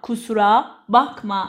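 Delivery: slow, word by word; slow teaching repeat. Shown as a demonstration. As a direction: split kusura from bakma for a learner. Teacher repeats phrase slowly, split. (آهسته و شمرده)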